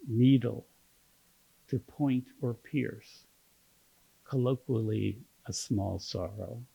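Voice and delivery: measured poetry reading with long pauses; poem reading. Acted. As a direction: read it as a poem, phrase by phrase. Reads a poem aloud.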